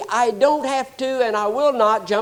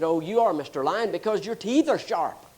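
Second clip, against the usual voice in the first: trembling deer; 4 semitones lower, 4 dB quieter than usual. Retold or imitated. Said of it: "The little deer was just trembling and said".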